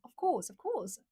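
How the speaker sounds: careful British "Of course"; British accent. Shown as a demonstration. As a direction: try out a polite British accent. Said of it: "something like that".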